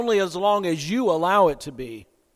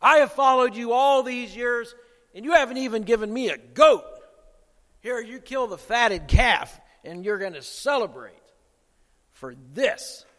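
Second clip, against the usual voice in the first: put-on bitter older brother; 4 semitones higher than usual. Older brother complaining to his father about the fatted calf, bitter. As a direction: spit out the grievance, then trail off. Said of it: "He spat out his displeasure".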